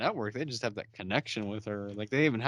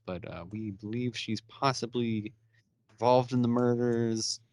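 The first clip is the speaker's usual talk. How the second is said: lightly played boss taking charge, low and unhurried; bossy Oliver; 4 semitones lower than usual. Oliver explaining to Lucian, lightly bossy and low. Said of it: "jumps in like the boss".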